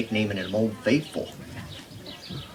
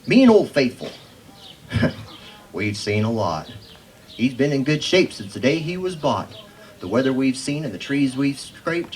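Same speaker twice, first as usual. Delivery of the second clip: lightly performed poem about a hat, steady rhythm; understated cowboy poetry reading; cowboy poem recital. Acted. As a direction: recite it to the crowd with a storyteller's lilt.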